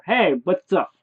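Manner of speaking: high, loud, breezy greeting; neighbour Bob's voice. Acted. Bob opens the door to a visitor, high loud hello. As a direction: greet like a chirpy made-up neighbour. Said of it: "what Bob would say in my head".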